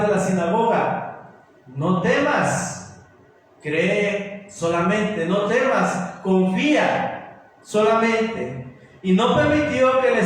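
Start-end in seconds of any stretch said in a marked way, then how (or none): 1.7-8.7 low, slow and gentle comfort; reassuring Jesus. Retold or imitated.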